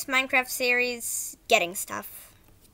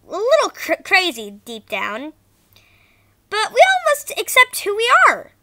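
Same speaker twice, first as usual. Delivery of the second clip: bad acting; 5 dB louder than usual. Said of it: "Sorry if the voice acting was bad".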